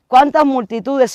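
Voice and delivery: loud, slow, high rhetorical question; booming pulpit question; emphatic preaching call. Real, not acted. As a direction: throw the question out to the church.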